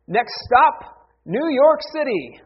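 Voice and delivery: high, loud train conductor announcement; mock conductor calling the next stop. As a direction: call out the stop down the carriage.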